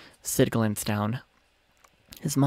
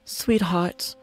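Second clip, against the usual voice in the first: gentle mother Ilya; 10 semitones higher than usual. Acted. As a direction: coax the truth out gently. Ilya comforting son.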